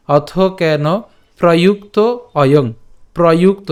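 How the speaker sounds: অথ কেন প্রযুক্ত অয়ং in separate, careful word groups; pronunciation demo. Shown as a demonstration. Teacher reads from the start for learners, অথ কেন প্রযুক্ত অয়ং carefully separated. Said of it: "উচ্চারণ কেমন হবে".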